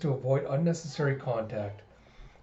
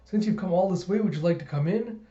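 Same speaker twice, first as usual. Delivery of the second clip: Yor; 4 semitones higher than usual. Acted. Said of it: "And Yor's like".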